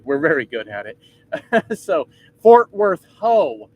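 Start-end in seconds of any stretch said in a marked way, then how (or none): 2.4-3.7 punchline guess. Pretend. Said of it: "so it has nothing to do".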